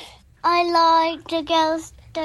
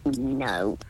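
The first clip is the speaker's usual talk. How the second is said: soft whispered refusal; 5 dB quieter than usual. Real, not acted. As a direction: whisper the word. Child answers in a whisper.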